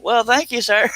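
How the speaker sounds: high-pitched, giggly thank you; laughing thanks. Real, not acted. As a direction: laugh your way through the thanks. Thanks a viewer, then laughs.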